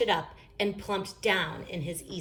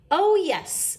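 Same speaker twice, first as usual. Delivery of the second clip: high, louder sudden exclamation; sudden remembering; 12 semitones higher, 6 dB louder than usual. A narrator's reading. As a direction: blurt it as it comes to mind. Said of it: "Brother said suddenly".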